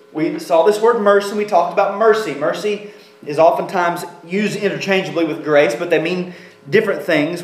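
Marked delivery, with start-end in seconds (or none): none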